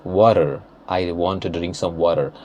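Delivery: "water" with a soft t and American r; American accent. Shown as a demonstration. Teacher showing how it changes, American accent "water". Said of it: "see how it changes".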